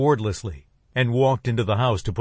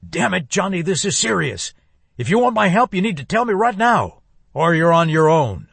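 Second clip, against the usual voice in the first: louder and higher, building to a shout; furious ultimatum; 7 semitones higher, 4 dB louder than usual. Acted. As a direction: lay down the ultimatum in anger.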